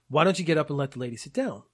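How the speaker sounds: quick, mildly rude retold demand. Old man wants the lady seated, mildly rude quick demand. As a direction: imitate a curt telling-off, briskly. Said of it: "really rudely".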